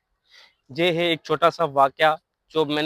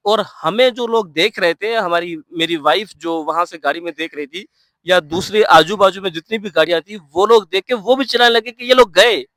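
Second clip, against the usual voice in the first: excited retelling; 6 dB louder than usual. Real, not acted. Retelling a near crash.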